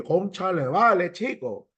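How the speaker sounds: lightly imitated Cuban accent. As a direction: put on a passing Cuban lilt. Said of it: "ese es un cubano".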